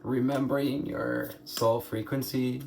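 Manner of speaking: normal talking voice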